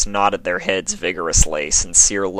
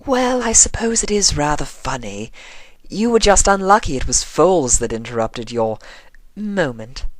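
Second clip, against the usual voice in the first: amused; 9 semitones higher than usual. A narrator's reading. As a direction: concede it's funny. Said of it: "Rarity smiled".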